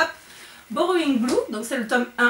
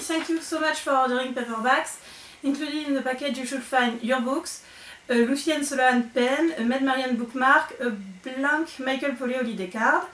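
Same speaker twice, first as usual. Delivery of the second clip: English letter read with a heavy French accent; strong French accent in English. Real, not acted. Reading Lucy's thank-you note aloud, strong French accent in English. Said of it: "vous avez vu mon super accent".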